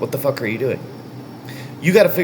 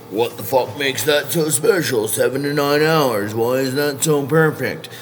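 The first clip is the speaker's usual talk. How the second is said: skeptical listener. Retold or imitated. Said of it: "And you might be saying".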